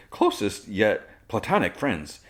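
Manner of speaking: slow, mock-nervous voice crack; imitated voice break. Jimmy insisting they are only friends, imitated voice break. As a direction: pretend your voice catches, drawing it out. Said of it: "his voice kinda breaks".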